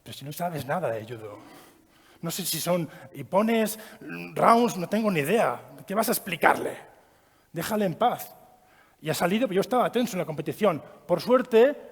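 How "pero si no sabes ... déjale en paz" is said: scolding himself inwardly. Retold or imitated. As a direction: mutter a self-rebuke under your breath. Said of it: "me he dicho a mí mismo".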